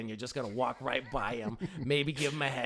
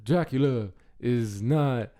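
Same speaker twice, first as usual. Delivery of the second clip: marbles in mouth; slower than usual. Acted. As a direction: mumble it like the Godfather. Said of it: "The Marlon Brando with, like, marbles in your mouth".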